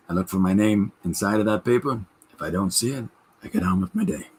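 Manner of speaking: lightly voiced old comedian, dry deadpan; George Burns impression. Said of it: "here's my George Burns".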